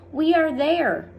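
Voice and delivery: high, loud, slow hearty call; cheerful. A narrator's reading. Old grasshopper cheers up his shaken friends, hearty call. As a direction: force some cheer into it. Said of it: "trying to be cheerful".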